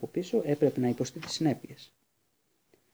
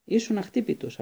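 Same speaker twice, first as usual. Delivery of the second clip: booming praise; 8 semitones higher than usual. A narrator's reading. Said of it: "η βροντερή φωνή του Χάγκριτ".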